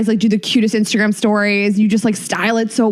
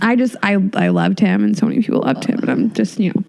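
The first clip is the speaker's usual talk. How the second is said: tearful; 3 semitones lower, faster than usual. Real, not acted. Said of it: "Now I'm crying".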